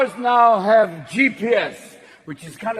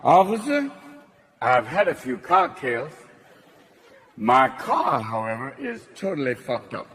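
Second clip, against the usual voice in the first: put-on drunk driver; 4 dB quieter than usual. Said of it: "get out of the car going".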